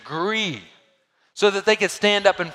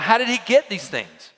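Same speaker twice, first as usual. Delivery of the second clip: loud puzzlement; 5 semitones higher, 5 dB louder than usual. Retold or imitated. Crowd puzzled by Jesus' teaching.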